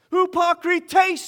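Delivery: slow emphatic hypokrites, hoo-pah-kree-tays; Greek pronunciation. Shown as a demonstration. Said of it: "in the Greek".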